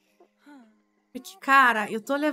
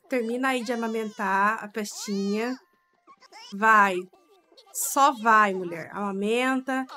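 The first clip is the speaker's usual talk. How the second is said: loud urging; 2 semitones lower, 3 dB louder than usual. Real, not acted. Ordering sim wife to feed.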